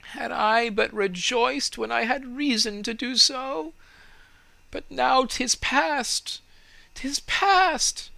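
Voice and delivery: lamenting tree. A narrator's reading. Tree laments its lost happiness.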